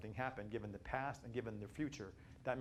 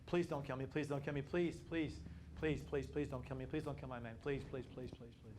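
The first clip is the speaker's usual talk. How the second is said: begging. Retold or imitated. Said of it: "begging for clemency. Just begging and pleading".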